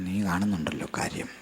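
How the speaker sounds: soft, intimate whisper; God whispering comfort to Moses; whispered reply. Acted. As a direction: whisper it close like a secret. God's tender reply to Moses.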